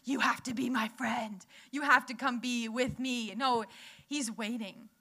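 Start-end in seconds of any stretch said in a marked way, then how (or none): 0.0-3.3 a hint of a pushy, insistent God; bossy demand he never makes; lightly voiced demanding friend; mock demanding God. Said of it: "He's not sitting there going".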